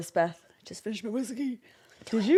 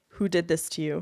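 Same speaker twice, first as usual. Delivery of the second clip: protective hero; 6 semitones lower, 4 dB quieter than usual. Retold or imitated. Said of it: "that last bit is like".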